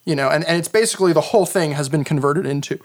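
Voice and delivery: talking while burping; burping between words, can't stop burping. Real, not acted. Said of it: "sorry, I can't stop burping".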